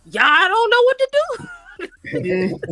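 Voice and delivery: high, slow, laughing through the words; laughing helplessly. Retold or imitated. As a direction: laugh it out, totally lost. Helpless lieutenant laughing at himself.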